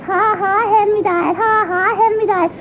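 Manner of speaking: put-on childish sing-song taunt; chanted mock laughing tease; mocking teasing. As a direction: imitate a brother's playground jeer. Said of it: "kept laughing and teasing".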